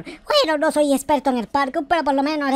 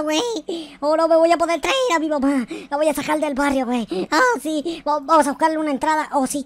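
ordinary talk, nothing marked

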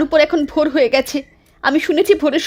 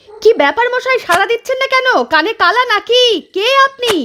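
calling out across a dark field, higher; 5 semitones higher than usual. Acted. Wife calls out to the stranger digging at night, impatient. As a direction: raise the voice to a silent stranger.

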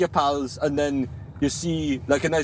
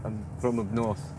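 put-on Geordie accent; 3 semitones lower, 5 dB quieter than usual. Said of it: "where is this accent from".

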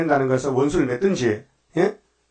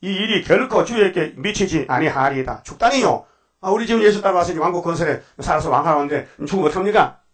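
pleading protest; 3 semitones higher than usual. Retold or imitated. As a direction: beg him not to go. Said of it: "예수를 붙들고 강하여 가로되". (스승을 붙드는 베드로의 간청)

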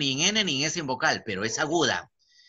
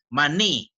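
"Maní" said louder, stress on final "ní"; acento en última sílaba; 5 dB louder than usual. Shown as a demonstration. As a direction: land firmly on the "ní" of "Maní". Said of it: "la mayor fuerza de voz está en ni". ("Maní" con fuerza en la "ní" final)

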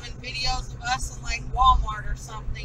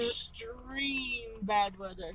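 ominous warning voice; 2 semitones lower, 9 dB quieter, much slower than usual. Pretend. Ominous weather warning echo.

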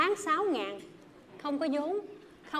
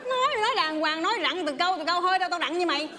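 indignant; 3 semitones higher, 3 dB louder than usual. Real, not acted. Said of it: "mày rặn theo kiểu chèo cổ".

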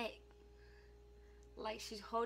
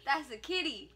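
acted correction; 5 dB louder than usual. Acts out correcting child about cat.

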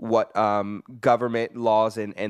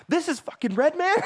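high-pitched incredulous question; retold disbelief. Telling the host how he heard Red Man on the laptop, incredulous. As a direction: re-enact your stunned disbelief, voice leaping up.

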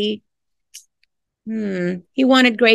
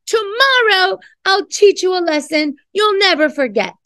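mild mock yell; 8 semitones higher than usual. Dentist yelling at the dog under the bed, mild mock yell. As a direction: scold the dog but keep it playful. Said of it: "Bibo yelled at him".

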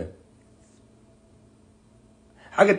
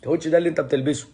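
hammed-up high know-it-all lecturing; condescending correction; 6 semitones higher than usual. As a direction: talk down to him like a smug teacher. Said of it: "فأنا بقول له".

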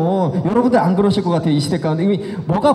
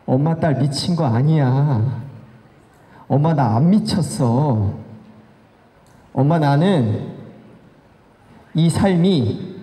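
understated tearful appeal; tearful pleading; 2 semitones lower than usual. Retold or imitated. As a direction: imitate a crying daughter, long pauses between phrases. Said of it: "울면서".

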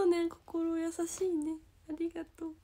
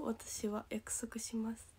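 soft unvoiced whisper of a promise; 3 semitones lower, 9 dB quieter, slower than usual. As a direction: breathe the promise out close to the mic. Sincere promise to fans.

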